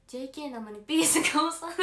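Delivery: loud, breaking into laughter; laughing. Real, not acted. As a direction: read it out, cracking up by the end. Cracks up reading viewer's tease.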